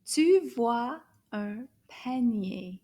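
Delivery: slow, clear "Tu vois un panier"; slow repeat. Shown as a demonstration. Teacher repeats the sentence slowly for the class.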